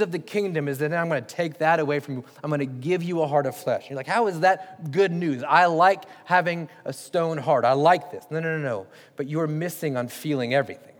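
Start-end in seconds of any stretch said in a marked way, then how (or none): 4.1-8.3 slow, emphatic mock objection; skeptical protest. Preacher voices a doubting listener, slow skeptical protest. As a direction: protest slowly, as a stubborn doubter.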